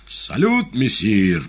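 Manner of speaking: high, loud cheery shout; shouted greeting. A narrator's reading. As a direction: hail him at the top of your voice. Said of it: "прокричала неугомонная парочка".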